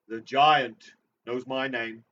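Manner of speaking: slow ominous reading; spooky dramatic. Acted. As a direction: spook the listener.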